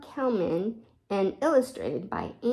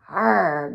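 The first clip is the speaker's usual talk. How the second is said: groaning arr; 4 semitones lower, 4 dB louder than usual. Acted. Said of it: "groaned Jane".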